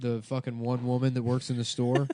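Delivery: upbeat podcast ad read. Acted. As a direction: sell it like a sponsor spot. Reads a sponsor ad.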